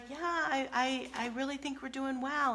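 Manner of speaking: high, sweetly quoted wife; lightly voiced agreeable spouse; imitating the wife. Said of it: "she's like".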